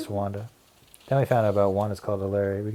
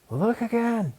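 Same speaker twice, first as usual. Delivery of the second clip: high, odd creature voice; gremlin voice; 13 semitones higher, slower than usual. Acted. Wanda as a gremlin questions Larry, eerie. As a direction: play a spooky log gremlin.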